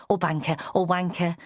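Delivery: a hint of mock toff; light music hall posh. Jack sneering at the rich husband, lightly posh. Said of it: "made it music hall posh".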